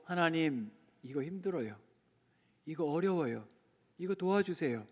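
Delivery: soft, hushed prayer to God; a soft, humble cry for help; quiet plea. Shown as a demonstration. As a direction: whisper your trouble to God.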